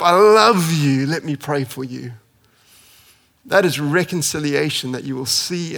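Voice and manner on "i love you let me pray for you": gentle love. Retold or imitated. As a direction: settle into warmth. Ananias softening to Paul.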